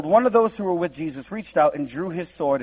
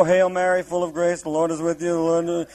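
mock pious recitation. Shown as a demonstration. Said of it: "doing that kind of thing".

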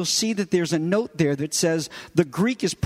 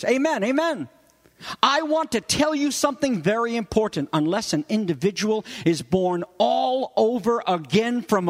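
raised, emphatic proclamation, leaning on "all over again"; grave emphasis; 3 semitones higher than usual. Acted. Preacher renders Jesus' solemn double amen, emphatic and grave. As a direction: proclaim it with weight, pausing before "even see". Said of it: "infuse this coming sentence with an unbelievable, phenomenal gravity".

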